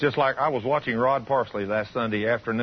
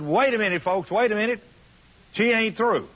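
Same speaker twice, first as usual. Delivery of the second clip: much higher, urgent call to wait; excited call to the crowd; 9 semitones higher than usual. Retold or imitated. Pastor stopping the cheering church, excited high call. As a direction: hold the crowd back, high and eager.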